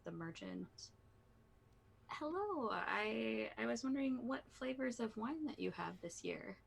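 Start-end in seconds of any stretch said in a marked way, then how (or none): 2.1-6.6 a slightly raised, polite inquiry; a hint of a courteous festival-goer; lightly voiced customer. Lasha approaches the wine merchant with a question, lightly in character.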